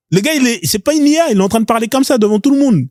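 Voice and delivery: high-pitched disbelief; amazed, pitch jumping up; incredulous. Real, not acted. Amazed at the clip he played.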